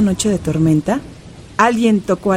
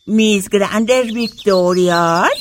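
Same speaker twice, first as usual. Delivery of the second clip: put-on old grandma voice; 2 semitones lower, much slower than usual. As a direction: play the elderly grandmother. Grandma mishearing.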